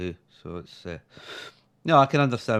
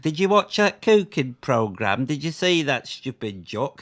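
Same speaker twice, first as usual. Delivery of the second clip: shocked English viewer; 2 semitones higher, 3 dB louder than usual. Acted. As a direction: play the scandalised English TV audience. Acted shocked English viewers in poem.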